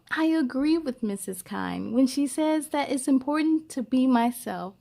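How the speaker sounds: gentle, expressive storybook reading; lively read-aloud for young listeners; reading to children. Acted. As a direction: read it like a picture book to a class. Reads a picture book aloud.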